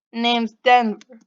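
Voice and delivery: loud, slow, badly faked Boston accent; Denver. Stranger introducing himself to Pixie, Boston accent. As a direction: give a terse intro in amateur Bostonian. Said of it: "my terrible Boston accent".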